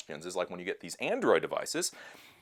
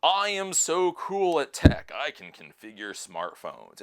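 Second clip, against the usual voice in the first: slow, loud, high mock bragging; hammed-up smug know-it-all; smug young techies; 8 semitones higher, 5 dB louder, slower than usual. Vlogger mocking young tech smartasses, slow smug bragging. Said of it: "all the twenty-three-year-olds".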